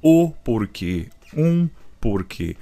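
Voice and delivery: slow, weighing each "O" and "um" before "porquê"; stressing the article. Shown as a demonstration. Teacher to students, slowly stressing "o" and "um" before "porquê". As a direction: lean on "o" and "um" to show the article. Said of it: "tá acompanhado do artigo".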